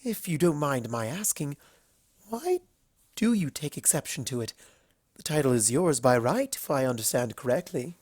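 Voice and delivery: all polite charm, a little nervous; refined Rarity. Acted. Rarity voiced in the story.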